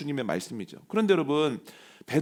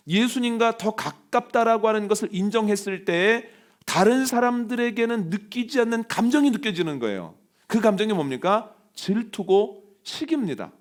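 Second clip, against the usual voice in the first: raised, insistent preacher's voice; emphatic, higher-pitched sermon delivery; forceful preaching; 6 semitones higher, 3 dB louder than usual. Acted. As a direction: press the point on the congregation.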